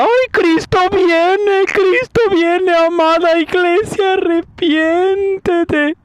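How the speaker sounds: high, drawn-out imitation of weeping preachers; hammed-up crying plea, stretching every word; mock tearful wailing. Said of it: "están llorando y diciendo".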